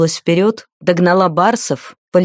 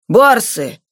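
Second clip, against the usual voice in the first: higher-pitched cry of alarm, volume held back; 4 semitones higher than usual. A narrator's reading. Someone sounds the alarm at the approaching beasts, restrained alarmed cry. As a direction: raise the alarm in a narrator's restrained shout. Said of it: "встревоженно крикнул кто-то".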